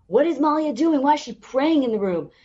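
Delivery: mock her like a snide coworker; mocking interns.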